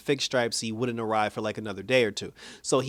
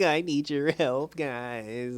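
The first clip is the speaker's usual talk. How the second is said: drawn-out pretend whimper, trailing off softer; mock crying; 4 dB quieter, much slower than usual. Rick begs the gang on the doorstep, mock crying. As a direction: plead slowly in a put-on crybaby voice. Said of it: "on her doorstep crying like".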